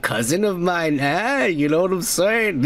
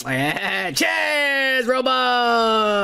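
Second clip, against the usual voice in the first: excited toast; 6 semitones higher, much slower than usual. Real, not acted. Toasting a commenter.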